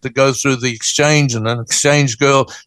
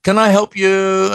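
higher-pitched, perky phone greeting; lilting, perky hello in a higher voice; perky lady doctor; 4 semitones higher, slower than usual. Retold or imitated. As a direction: imitate a lovely, perky lady answering a call. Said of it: "I hear this perky voice, a lovely lady".

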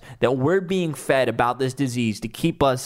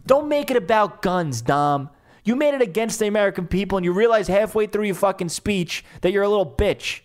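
angry rant; 3 semitones higher than usual. Real, not acted. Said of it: "I'm going off a little too much".

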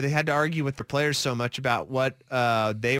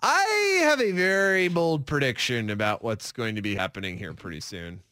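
coy announcement. Real, not acted. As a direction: tease it as if keeping it to yourself. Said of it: "you said it like you weren't gonna share it".

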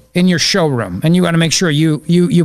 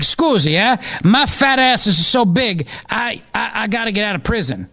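higher-pitched comic Italian prisoner; mock Italian accent; 5 semitones higher than usual. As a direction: whine your case in hammed-up Italian English. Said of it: "the only accent I can get away with".

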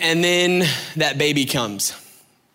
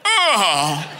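shocked gasp; 4 semitones higher than usual. Retold or imitated. Reacting to weird device.

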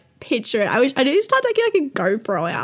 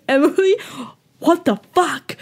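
mock shocked housemates; 3 semitones higher than usual. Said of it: "they just went".

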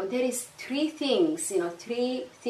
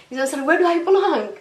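raised, louder, fed-up question; exasperated; 8 semitones higher, 9 dB louder, faster than usual. Real, not acted. A Somali woman venting about never fitting in, exasperated and loud. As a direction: let the frustration burst out.

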